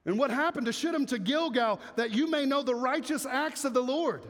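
measured Bible reading voice; scripture reading. Acted. Pastor reading scripture to church, measured reading. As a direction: read the verse out to the congregation.

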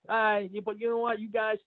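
a hint of a cocky local picking a fight; local guy taunting. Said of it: "so then the guy's like".

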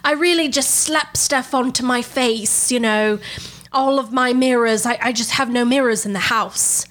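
slow, drawn-out parody singer voice; a well-known singer. Retold or imitated. Fake singer explains her routine to hosts, slow parody voice. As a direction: stretch it like a hammed-up celebrity caller. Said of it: "She's like".

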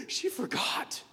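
sharp high gasp, then a breathy "She forgot."; half-whispered discovery of the left drawing; gasping realization. Retold or imitated. Boy finding his picture left on the chair, gasping. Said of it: "And I said".

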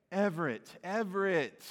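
a light, affectionate but serious rebuke, calling a name twice; gentle parental rebuke. Shown as a demonstration. Parent looking a middle child in the eye, affectionate but serious rebuke. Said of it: "you know that tone".

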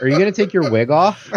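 laughing tease. Retold or imitated. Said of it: "I'm like".

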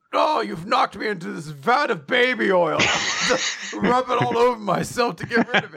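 high, laughing hammed-up dub line; laughing mock dub voice. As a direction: giggle through a silly fake villain line. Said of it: "and it's like".

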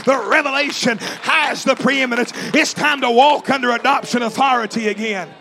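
shouted, rhythmic revival preaching; fiery holiness preacher in full flow; preaching at full force. Acted.

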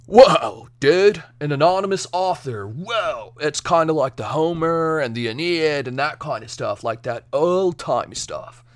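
a lightly put-on awed dude voice; mock amazement, hammed up a little; lightly voiced stoner awe; goofy voice. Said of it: "I don't know why I'm doing these accents or voices".

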